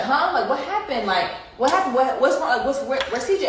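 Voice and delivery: a hint of a dazed man asking what happened; mock bewildered questions; confused boyfriend.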